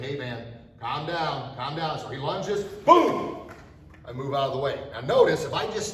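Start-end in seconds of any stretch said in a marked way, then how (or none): 0.0-1.5 calming. Shown as a demonstration. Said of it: "I'm saying". 2.6-3.5 sharp shouted boom; strike shout. Shown as a demonstration. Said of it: "strike demo".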